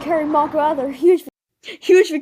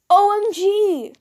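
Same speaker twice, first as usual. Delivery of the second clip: flustered squeal; 8 semitones higher, 5 dB louder, slower than usual. Acted. Catboy flustered by hand kiss.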